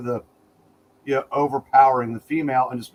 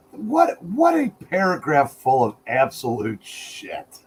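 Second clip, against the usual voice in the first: disgusted; slower than usual. Real, not acted. Outraged reaction to paragraph.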